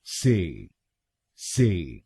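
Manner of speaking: teacher isolates the third syllable से; syllable demo. Shown as a demonstration. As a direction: drill the syllable से on its own. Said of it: "हम बोलेंगे".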